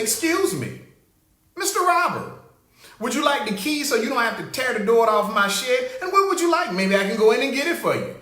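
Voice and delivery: butter up the burglar, mockingly; mock pleasant politeness. Homeowner sweetly greeting the shed thief, mock polite. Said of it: "come out there with a pleasant attitude and say".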